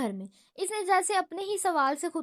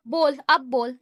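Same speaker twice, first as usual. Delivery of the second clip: louder dare, bellowed at his brother; shout; 7 dB louder than usual. Acted. Danial shouts at Yusuf to go on and speak. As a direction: yell it as a taunt. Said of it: "چلا کر کہا".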